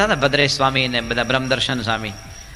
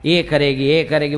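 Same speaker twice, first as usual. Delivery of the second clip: poetic lover. Retold or imitated. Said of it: "પોએટ્રિકલ બધું".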